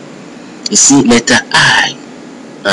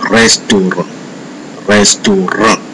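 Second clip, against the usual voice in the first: "restaurant" with weight on the last syllable; French "restaurant", end stressed; French final stress. Shown as a demonstration. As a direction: say "restaurant" the French way, leaning on the final nasal vowel. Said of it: "last part of the word that bears a heavy stress".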